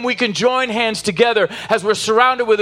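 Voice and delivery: rising preacher's cry, building with each line; preaching at full force. Acted. Pastor urging the congregation to finish the race, impassioned and building. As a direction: drive it home to the whole congregation.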